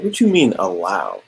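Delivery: lightly voiced arrogant boss putting her in her place; arrogant retort. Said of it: "He's like".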